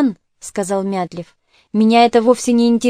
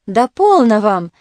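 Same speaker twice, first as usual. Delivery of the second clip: ordinary delivery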